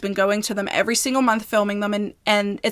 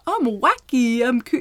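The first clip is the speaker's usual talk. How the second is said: Sam Hyde bit; 2 semitones higher than usual. Retold or imitated. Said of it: "It reminds me of Sam Hyde's".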